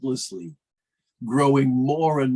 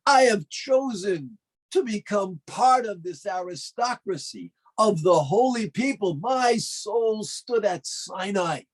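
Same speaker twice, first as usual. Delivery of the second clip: proud defiance; 6 semitones higher than usual. Acted. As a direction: thunder back at the tempter. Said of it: "We must respond like Yosef".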